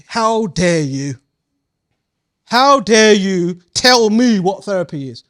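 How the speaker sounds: the teacher pretends to be deeply offended by the dictionary; mock indignation.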